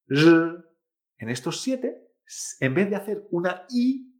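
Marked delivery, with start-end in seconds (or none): 0.1-0.6 "r" as Chinese ri, loud buzzed sound without i; silent I. Shown as a demonstration. Teacher recalling initial sounds, "r" with silent I. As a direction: sustain "r" with no i vowel. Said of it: "la I no se pronuncia".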